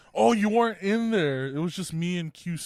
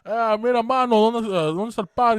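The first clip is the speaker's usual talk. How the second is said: stereotypical Cuban; 4 semitones higher, 6 dB louder than usual. Retold or imitated. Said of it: "started doing, like, a stereotypical Cuban".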